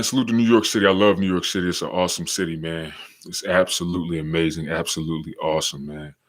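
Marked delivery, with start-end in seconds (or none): none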